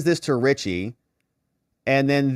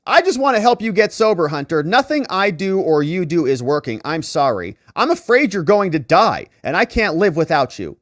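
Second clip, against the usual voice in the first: pleading partner; 4 semitones higher, 4 dB louder than usual. Retold or imitated. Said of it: "partner's plea voiced".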